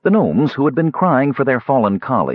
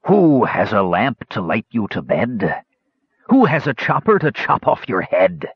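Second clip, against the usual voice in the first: Rapaldo. Acted. Crazed king from the dark, a mildly menacing singsong taunt. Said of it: "came Rapaldo's snickering laugh".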